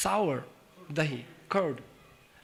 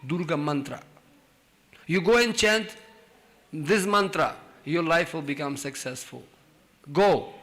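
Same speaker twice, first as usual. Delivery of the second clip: commanding king; 4 dB louder than usual. Retold or imitated. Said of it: "He said".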